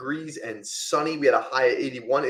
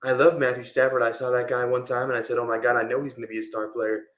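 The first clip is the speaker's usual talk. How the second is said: a hint of Trump's cadence, casual brag; Donald Trump. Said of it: "my Trump is not that great".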